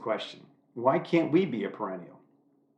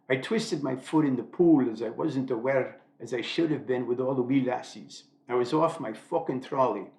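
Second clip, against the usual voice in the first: put-on a light, admittedly poor Scottish accent; hammed-up amateur Scottish accent; bad Scottish accent. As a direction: have a go at a Scottish lilt, not quite landing it. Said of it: "That was pretty bad".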